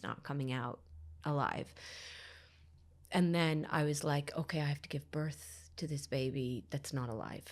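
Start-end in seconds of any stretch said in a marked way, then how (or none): 4.4-7.4 soft, breathy whisper of dawning realisation; numb whisper. Retold or imitated. Realising she must give birth, whispering numbly. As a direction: let it sink in, barely voiced.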